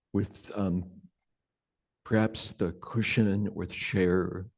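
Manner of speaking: unhurried meditation guidance with long pauses; guided meditation. Real, not acted. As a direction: gently guide them into sensing the body, leaving space between phrases.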